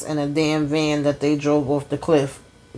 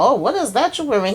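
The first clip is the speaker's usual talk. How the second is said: higher, quick, lightly voiced prim mother; a hint of a fussy adoptive mom scolding; mock prissy foster mom; 6 semitones higher, faster than usual. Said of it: "She's talking about".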